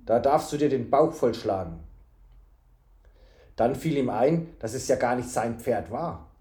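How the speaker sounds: measured storybook reading; story narration. A narrator's reading. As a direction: narrate the tale evenly.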